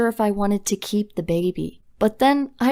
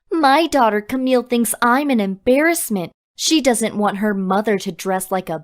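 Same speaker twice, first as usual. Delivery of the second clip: mildly raised, indignant mom outburst; half-hearted mock yell; mock scream.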